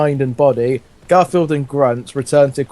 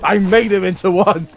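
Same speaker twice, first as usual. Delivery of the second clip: Garfield voice; 5 semitones higher than usual. Acted. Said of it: "said Garfield wittingly".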